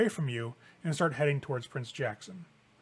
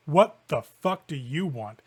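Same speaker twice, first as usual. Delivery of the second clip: hostile snarl; 5 dB louder, slower than usual. Acted. Malenkov snaps at Annabelle.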